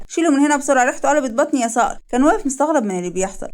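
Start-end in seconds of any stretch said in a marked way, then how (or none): 0.1-2.0 mildly urgent, pitched-up order; acted revulsion, raised pitch; urgent disgust. Wife repelled by the smell, urgent order.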